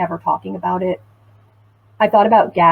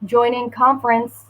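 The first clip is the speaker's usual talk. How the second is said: lightly voiced robotic announcement; flat recorded system prompt; automated phone voice; 5 semitones higher than usual. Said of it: "this automated voice saying".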